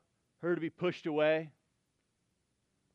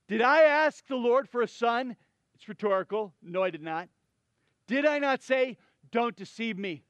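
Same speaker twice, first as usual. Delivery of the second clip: anguished reproach; 3 semitones higher, 3 dB louder than usual. Acted. Voicing the mother's anguished reproach.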